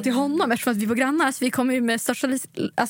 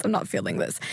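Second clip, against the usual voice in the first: deadpan brush-off; 4 dB quieter than usual. Retold or imitated. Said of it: "jag kände bara".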